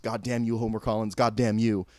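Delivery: mock wooden line reading; imitating a bad actor's monotone; no inflection. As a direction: say the curse with all feeling drained out. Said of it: "literally no inflection whatsoever".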